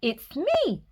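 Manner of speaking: put-on high, squealing baby goat; high little kid goat answering; squeaky little goat. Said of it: "Baby Gruff squealed".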